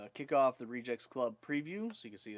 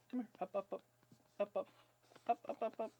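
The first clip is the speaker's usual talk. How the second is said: high-pitched coaxing; 11 semitones higher, faster than usual. Real, not acted. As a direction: call the puppy up sweetly. Coaxing puppy up.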